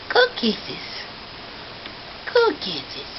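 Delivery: high squeaky cooing praise. Real, not acted. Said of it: "high cooing praise".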